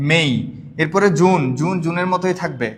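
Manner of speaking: normal talking voice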